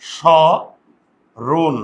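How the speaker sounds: স then রোন, a pause between, closed o in রোন; syllable by syllable. Shown as a demonstration. Teacher showing the o-vowel to students, syllable by syllable. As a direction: sound out স open, then রোন with an o. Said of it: "এই ওকার".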